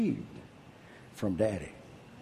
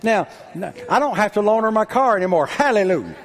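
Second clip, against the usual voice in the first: fervent preaching; 7 semitones higher, 4 dB louder than usual. Real, not acted. Preacher climaxes with fervor.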